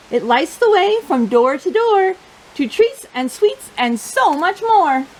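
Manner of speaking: lively, expressive picture-book reading; reading to children. Acted. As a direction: tell the story to a room of little kids.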